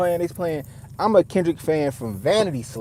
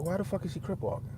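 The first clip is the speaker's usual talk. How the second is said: incredulous; 3 semitones higher, 11 dB quieter, faster than usual. Retold or imitated. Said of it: "I was just like".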